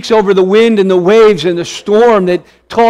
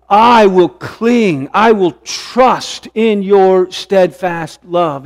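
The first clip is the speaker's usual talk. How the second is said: emphatic resolve. Retold or imitated. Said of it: "this emphatic shift in his thinking".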